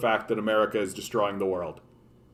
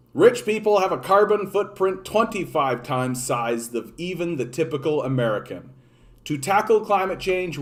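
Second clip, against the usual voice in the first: reading aloud; 4 semitones higher than usual. Shown as a demonstration. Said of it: "from the Jacobin".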